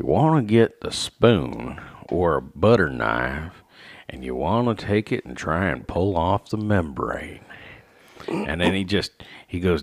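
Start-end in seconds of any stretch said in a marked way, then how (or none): 0.0-7.4 put-on Southern American accent. Imitating a man explaining a task in a video: slow southern accent. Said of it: "just real slow Southern accent".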